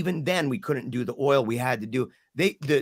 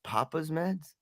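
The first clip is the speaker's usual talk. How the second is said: soft, hesitant imitation of his daughter; reluctant; 2 semitones higher, 7 dB quieter, slower than usual. Daughter warily admits to the doctor, reluctant. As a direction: murmur it reluctantly, imitating a cautious child. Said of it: "really reluctantly said ... Like this".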